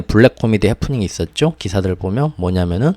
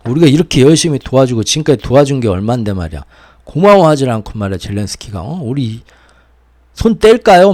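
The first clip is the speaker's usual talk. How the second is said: mock angry outburst; 3 semitones higher, 3 dB louder than usual. Americans raging about Zelensky behind closed doors, mock angry building up. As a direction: huff and escalate like an insulted ally. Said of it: "언성이 막 높아지고".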